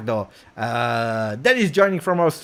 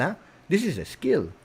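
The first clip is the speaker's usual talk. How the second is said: ordinary talk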